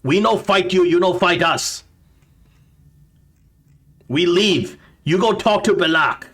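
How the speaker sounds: goblin voice. Acted. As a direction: bargain warily as a goblin. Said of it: "this voice says".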